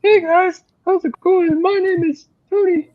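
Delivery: very high, squeaky mock falsetto. Man mimicking timid guys introducing themselves to ladies, squeaky voice. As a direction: squeak it out high, imitating a weak guy. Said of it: "they have, like, this squeaky voice".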